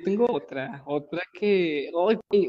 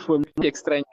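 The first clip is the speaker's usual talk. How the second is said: laughing; 3 dB louder than usual. Real, not acted. Recalling how oddly the girl left, laughing. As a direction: laugh through fue muy extraña.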